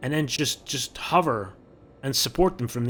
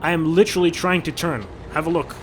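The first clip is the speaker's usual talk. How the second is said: exasperated; 3 semitones higher, 6 dB louder than usual. Real, not acted. Ship won't turn, frustrated.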